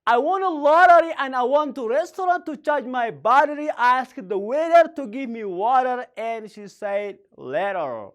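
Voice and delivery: tongue twister run together in longer phrases; repeated tongue twister. Shown as a demonstration. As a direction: link the phrases up, hold back only the final word. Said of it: "Now let's say again".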